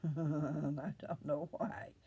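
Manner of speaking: slow, laughing admission; real laughing. Real, not acted. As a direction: chuckle your way into the words. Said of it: "I shouldn't be laughing about that".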